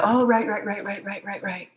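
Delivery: mock sudden realization. Acting out her future moment of recall.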